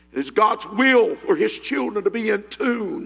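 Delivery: ordinary talk, nothing marked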